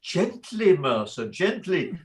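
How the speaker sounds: high, lilting "gently"; gentle restraint. Acted. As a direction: soothingly hold back an angry underling. Employer restrains his angry clerk.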